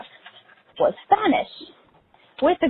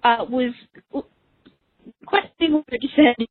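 out of breath while walking the dog; panting between words, out of breath. Real, not acted. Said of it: "sounds like I'm extremely out of breath".

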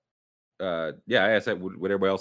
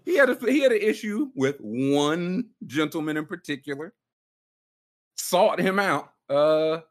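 mock official voice; 5 semitones higher than usual. Mock measured justification.

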